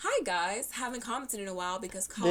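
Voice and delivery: normal talking voice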